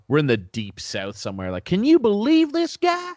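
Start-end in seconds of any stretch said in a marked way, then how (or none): 1.7-3.1 high loud mock trucker voice. Dad's trucker buddy on CB radio, hammed-up high yell. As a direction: ham up a Southern trucker griping over the radio.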